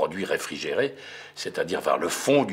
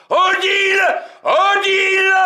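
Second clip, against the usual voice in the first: high, loud repeated call; frantic yelling for Odile; 17 dB louder, slower than usual. Acted. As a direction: shout her name over the aisles. Searching store, calling her.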